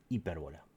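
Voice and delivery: "hipérbola" stressed on its second syllable, "pér". Shown as a demonstration. Teacher names the new figure for students, stress on "pér" in "hipérbola". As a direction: put the accent on the é of "hipérbola". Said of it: "Hipérbola con acento en la E".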